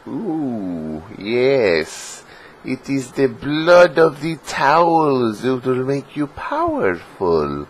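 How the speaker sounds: high, slow, mock sinister voice; ominous villain voice. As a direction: intone it like a dark potion master. Hamming up his super drink.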